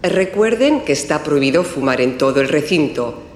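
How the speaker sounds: formal public address announcement; airport announcement. Acted. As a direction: call passengers to their gate over the terminal speakers. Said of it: "Está en el aeropuerto y oye el siguiente aviso".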